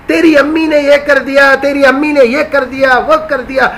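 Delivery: an irritated wife listing complaints; mock angry wife. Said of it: "بیوی شوہر پہ غصہ ہو جائے". (غصے میں بیوی کی شکایت)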